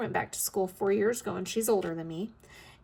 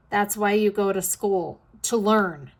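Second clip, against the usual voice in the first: louder, mock-exasperated daughter; emphatic retort; 7 dB louder than usual. Daughter telling her mother why people study, emphatic. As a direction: state the obvious loudly, as a retold comeback.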